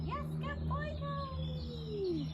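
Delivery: high, loud praise for the dog; excited dog praise. Real, not acted. Trainer praising her nervous dog, high and loud. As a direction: cheer the dog on brightly.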